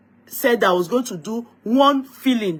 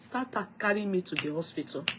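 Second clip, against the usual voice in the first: weak plea; 10 dB quieter than usual. Retold or imitated. Weak sick request to husband.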